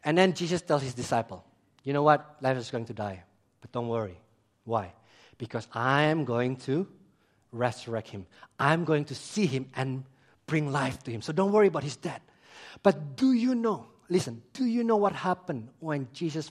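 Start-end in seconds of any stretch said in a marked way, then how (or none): 1.8-12.2 low, measured, softened voice; calm reassurance. Retold or imitated. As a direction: settle their worries in a low, even voice. Jesus calmly reassures his disciples.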